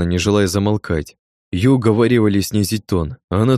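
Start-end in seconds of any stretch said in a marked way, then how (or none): none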